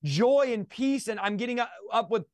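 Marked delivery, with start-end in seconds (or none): 0.0-0.5 high, elated retelling; excited wonder. Retold or imitated. Telling the host how the world changed after conversion, excited wonder. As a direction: marvel with the pitch lifted.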